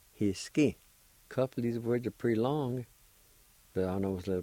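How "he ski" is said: "ye, li, i, ki, da" each syllable apart, then joined. Shown as a demonstration. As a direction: teach the syllables slowly and clearly. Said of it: "I'll pronounce these words one more time".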